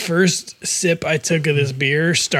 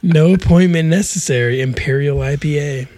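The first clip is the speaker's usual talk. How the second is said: louder punchy ad tagline; slogan announcer read; 4 dB louder than usual. Shown as a demonstration. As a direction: sell it like a beer ad. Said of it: "It's called Therapist".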